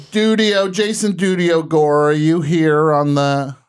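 high, loud, drawn-out call. Real, not acted. Host calling his colleague on the line, high drawn-out call.

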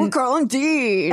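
mock bro voice. Voicing the beach boys.

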